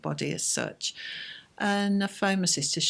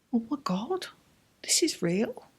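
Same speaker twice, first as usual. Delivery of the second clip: whispered, dawning realisation; whispered shock; 5 semitones higher than usual. Retold or imitated. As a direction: breathe it as the truth sinks in. Seeing her sister's face.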